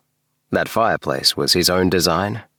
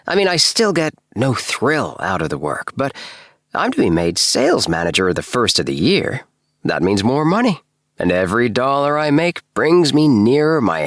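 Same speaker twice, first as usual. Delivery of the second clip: raised, lively eager voice; Appleby voice; 3 semitones higher than usual. Acted. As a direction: voice him bright and eager. Appleby about his job.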